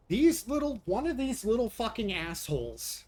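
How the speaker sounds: exasperated pet owner snapping at the cats; real anger. Real, not acted. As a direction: spit it out in genuine fury. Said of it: "I'm mad at the cats today".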